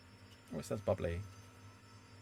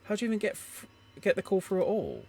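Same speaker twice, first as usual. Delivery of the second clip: 1 angry hushed phone call; 7 semitones higher than usual. Acted.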